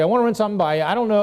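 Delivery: easygoing sales call to someone familiar; friendly conversation. Shown as a demonstration. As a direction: casually open a friendly phone pitch. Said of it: "it's a very friendly conversation here".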